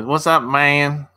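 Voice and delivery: slow, drawn-out Midwest "what's up, man" in a light put-on accent; Midwest accent imitation. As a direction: mimic how they talk in Indiana. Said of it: "That's how they talk in the Midwest".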